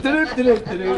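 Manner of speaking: high sing-song "do-do" noise; imitated scurrying off. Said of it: "And they just went".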